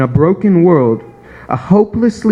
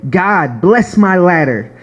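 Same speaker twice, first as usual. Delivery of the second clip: higher, earnest begging prayer voice; pleading prayer; 3 semitones higher than usual. Retold or imitated. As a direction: plead with God for blessing. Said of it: "We say".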